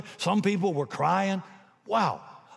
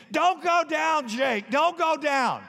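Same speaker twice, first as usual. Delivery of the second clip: team screaming; 10 semitones higher, slower than usual. Retold or imitated. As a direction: yell it like a whole team urging him on. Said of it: "the whole team starts screaming".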